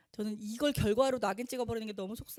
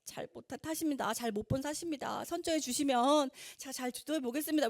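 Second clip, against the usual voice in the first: meek apologetic tone; 2 semitones higher than usual. Retold or imitated. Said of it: "이런 태도잖아요".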